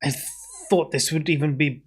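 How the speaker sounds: indignant, outraged scolding; a huffy, affronted town official; angry official. Acted. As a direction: scold them like an offended official. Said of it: "his face kind of contorts, very angry".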